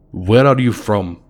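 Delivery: put-on a light Russian accent on the question; a stranger quizzing in a Russian accent; lightly done Russian accent. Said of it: "in a very heavy Russian accent".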